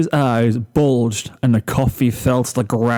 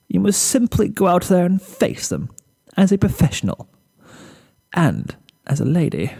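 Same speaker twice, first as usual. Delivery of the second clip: higher, prim pep talk to herself; self-rallying Rarity; 6 semitones higher than usual. Acted. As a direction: steel yourself like a proper lady.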